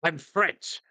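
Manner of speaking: a silly put-on French accent; mock French accent. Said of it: "faking a French accent".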